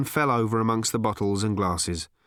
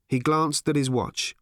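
ordinary delivery

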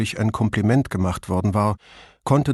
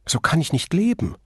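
put-on higher, pleading young woman's voice; a distressed singer who feels trapped; higher voiced Flavia near despair; 5 semitones higher than usual. Flavia speaks, distressed actress.

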